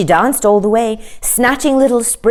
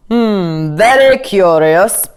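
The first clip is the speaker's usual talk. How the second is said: puzzled king; 4 dB louder, slower than usual. A narrator's reading.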